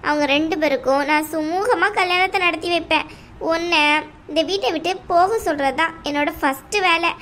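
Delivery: a domineering aunt, coldly dismissive; mother-in-law telling the bride to leave the house, scornful. Acted. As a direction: lay down the law to the unwanted daughter-in-law. Same actor voices the aunt.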